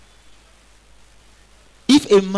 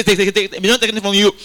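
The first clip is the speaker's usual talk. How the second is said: firm, louder refusal, pushing them away; insistent refusal; 4 semitones higher, 5 dB louder, much faster than usual. Retold or imitated. Robbers urging him to take, he firmly refuses. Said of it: "you say".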